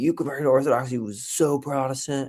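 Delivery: accusatory tone. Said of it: "in kinda, like, an accusatory way".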